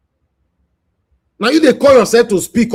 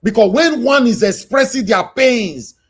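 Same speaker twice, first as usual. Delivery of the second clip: loud, raised, preaching scold; impassioned shout; 4 semitones higher, 3 dB louder than usual. Real, not acted. Host lecturing the commenters on their lack of sympathy, shouting. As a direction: drive it home, loud and heated.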